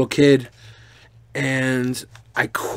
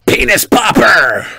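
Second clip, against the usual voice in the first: mock comment read; 5 semitones higher, 5 dB louder, slower than usual. Reading a crude comment aloud.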